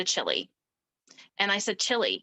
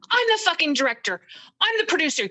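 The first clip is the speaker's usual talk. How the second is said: angry shout; 5 semitones higher, faster than usual. Retold or imitated. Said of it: "And he goes".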